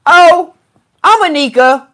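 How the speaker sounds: put-on high-pitched young-sounding personality; high, chirpy self-introduction; Anika. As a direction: lift the voice high to introduce yourself. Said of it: "another personality came out".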